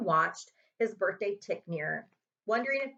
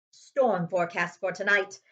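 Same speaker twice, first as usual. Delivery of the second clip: louder, gleeful gruff uncle; gleeful Uncle Vernon; 6 dB louder than usual. Acted. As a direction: relish the bad news. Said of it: "said Uncle Vernon gleefully".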